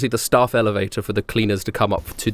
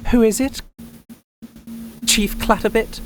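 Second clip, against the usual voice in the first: calling out; 9 semitones higher than usual. Acted. GM voices woman calling out.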